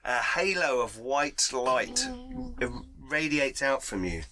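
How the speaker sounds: slow, slightly grand scene setting; game master narration. Acted. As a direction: paint the spell for the table. GM describes the spell effect.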